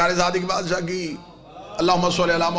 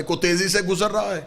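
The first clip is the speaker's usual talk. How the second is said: lifted, lively delivery, stress on تیزی; brisk passing; 2 semitones higher than usual. Shown as a demonstration. Preacher shows travellers hurrying through life, brisk. Contrasts hurried and easy passing.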